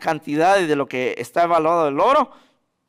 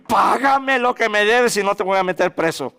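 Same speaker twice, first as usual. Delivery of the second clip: a hint of a menacing creditor; harsh demand; 4 semitones higher, 4 dB louder than usual. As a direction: squeeze the debtor for his money. Cruel servant threatens his debtor.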